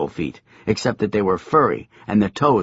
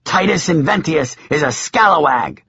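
shouting; 5 semitones higher, 4 dB louder than usual. A narrator's reading. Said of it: "she shouted".

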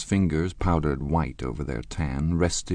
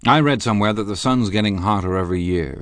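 genial; 4 semitones higher, 6 dB louder, faster than usual. A narrator's reading. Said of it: "said Tom genially".

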